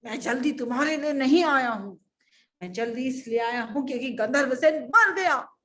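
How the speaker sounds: loud commanding rebuke; angry king. Acted. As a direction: silence her with royal anger. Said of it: "राजा को आया गुस्सा". (गुस्से में राजा की फटकार)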